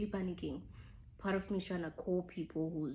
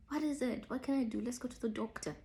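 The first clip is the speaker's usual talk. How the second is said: higher-pitched, mildly frantic questions; retold panic; 6 semitones higher, faster than usual. Girlfriend urging her sick partner to the doctor, mildly panicked. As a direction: worry aloud in a raised pitch. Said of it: "I'm panicking".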